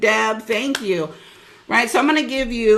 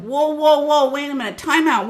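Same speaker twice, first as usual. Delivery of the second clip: louder, higher startled "whoa"; retold alarm; 4 semitones higher, 3 dB louder than usual. Coach recalling spotting the overspend, startled. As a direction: stop yourself mid-review, alarmed. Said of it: "I'm like".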